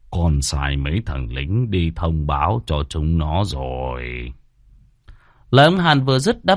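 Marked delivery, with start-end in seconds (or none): 0.1-4.3 slow, low, ingratiating servant; lightly voiced scheming servant; sly fawning servant. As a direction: report to the master with a sly grin. Servant Hàn voice.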